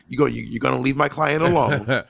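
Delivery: lightly voiced thug making threats; half-joking street heavy; mock thug. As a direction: play the tough enforcer warning someone off. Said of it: "be a thug for you".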